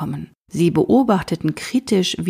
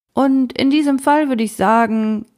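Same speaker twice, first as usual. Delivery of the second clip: bossy team leader; 6 semitones higher, 3 dB louder than usual. Acted. Bossi voiced as leader.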